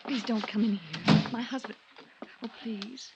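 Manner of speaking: pleading, fading to near a whisper; frightened pleading. Acted. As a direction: beg him to stay out, trailing off. Wife begging him not to enter.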